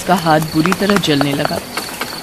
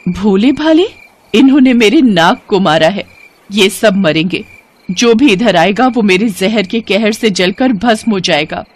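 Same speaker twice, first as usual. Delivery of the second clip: vengeful serpent woman. Acted. Serpent woman threatening the sadhu over her slain mate, furious. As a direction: spit back the sadhu's words.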